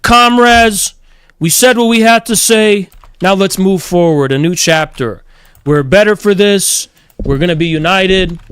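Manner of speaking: a hint of a grand union orator; mock rousing speech. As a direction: ham up a leader's rally speech. The speaker rallying the group.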